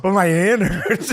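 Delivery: high, slow, loud whimper; whiny mom. Retold or imitated. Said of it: "She was like".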